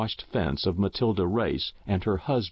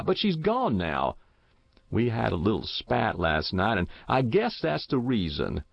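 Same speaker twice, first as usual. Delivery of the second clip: lightly voiced old countryman, matter-of-fact; a hint of rustic old widower, rising in places; deluded old farmer; 2 semitones higher than usual. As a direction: explain it as a confused old man, quite sure of himself.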